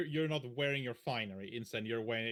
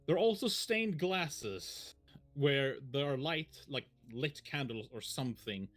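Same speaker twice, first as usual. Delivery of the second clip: measured scene-setting narration; story narration; 2 semitones lower than usual. Acted. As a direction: paint the scene for the players. Game master scene setting.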